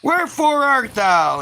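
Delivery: lightly hammed-up demand to show yourself; mock-stern God calling. God calls out, getting mad.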